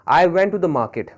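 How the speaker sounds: very slow, words spaced apart; slow example read. Shown as a demonstration. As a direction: read the sentence slowly for the class. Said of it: "जैसे देख लेते हैं". (वाक्य बहुत धीरे पढ़ना)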